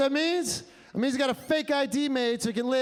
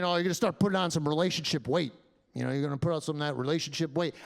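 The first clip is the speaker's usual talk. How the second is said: low, fast ribbing voice; teasing friends; 6 semitones lower, faster than usual. Retold or imitated. Friends teasing a couple, in a low, fast ribbing voice. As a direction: rattle it off like a nagging friend. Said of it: "people, like, saying".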